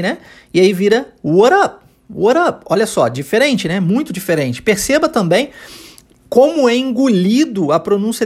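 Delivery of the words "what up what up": "what up" with a quick tapped R for the T; T turned to R. Shown as a demonstration. Teacher showing T transformed into R, tapped "what up". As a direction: flap the T in "what up" so it runs into "up". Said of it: "ele é transformado em R".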